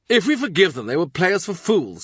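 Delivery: mild alarm in Brandon's warning; lightly voiced Brandon. A narrator's reading. Brandon warns the king.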